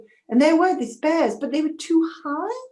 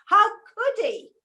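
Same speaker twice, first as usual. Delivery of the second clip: higher, slow, wounded outrage; bitter anger; 9 semitones higher, 3 dB louder, slower than usual. Acted. Daughter raging at her father, slow and higher in anger. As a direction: let the betrayal burst out slowly. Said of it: "And such anger".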